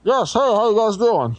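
muffled phone voice. Real, not acted. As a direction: sounds far off and muffled. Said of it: "sound like you're muffled".

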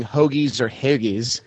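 "hoagies" said two ways, the vowel changed on the second; two pronunciations. Shown as a demonstration. Co-host teasing about a pet peeve, two pronunciations of "hoagies". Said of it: "somebody saying".

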